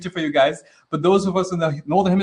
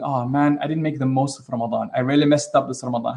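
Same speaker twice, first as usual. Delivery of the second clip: lightly acted regret, sinking lower; guilty regret; 3 semitones lower than usual. Teacher voicing us when Ramadan is over, mild guilty regret. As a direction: own up with a touch of guilt. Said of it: "we kinda feel guilty".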